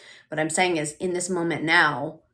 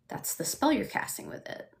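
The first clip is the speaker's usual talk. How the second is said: whisper; 7 semitones higher, 7 dB quieter than usual. Real, not acted. Pointed aside about self-talk.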